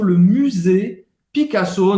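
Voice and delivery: le Musée Picasso in French, musée with rounded y; French accent. Shown as a demonstration. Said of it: "pronúncia em francês".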